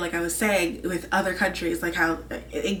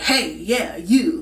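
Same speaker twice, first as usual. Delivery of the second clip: tough Busan call-out; 6 dB louder, much slower than usual. Retold or imitated. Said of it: "trying to go, like".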